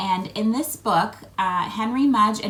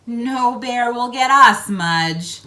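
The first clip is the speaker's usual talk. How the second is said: put-on bold boy; 4 semitones higher, 9 dB louder, slower than usual. Henry boldly reassures his dog.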